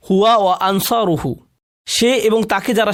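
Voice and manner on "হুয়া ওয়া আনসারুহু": ordinary talk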